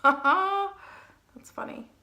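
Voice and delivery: loud, high laugh, slow. Real, not acted. Makeup artist laughing at her own contour mistake, laughing loudly. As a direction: crack up at yourself.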